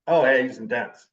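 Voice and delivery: imitating an impressed admirer; mild admiring compliment. People describing him as intense, lightly complimenting. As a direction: say it as praise, with an approving "oh". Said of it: "mean it as a compliment".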